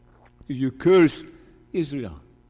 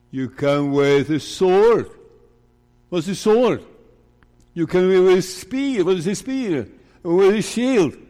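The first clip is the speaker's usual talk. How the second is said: scornful; 4 semitones higher, 4 dB louder than usual. Acted. Preacher voicing David mocking the Philistine's weapons.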